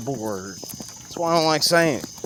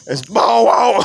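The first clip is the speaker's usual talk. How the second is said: laughing mock question; 9 semitones higher, 8 dB louder, slower than usual. Friend laughing at old noise.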